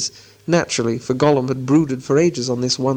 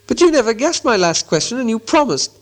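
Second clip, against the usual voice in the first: Bilbo voice; 9 semitones higher than usual. A narrator's reading.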